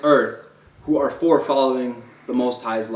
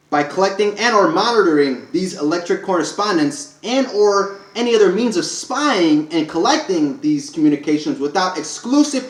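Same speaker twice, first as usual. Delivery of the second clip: slightly raised, measured proclamation voice; solemn, deliberate recital of rights; formal declaration; 2 semitones higher than usual. Acted. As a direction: declare it like a legal decree. Reads a formal sovereign declaration.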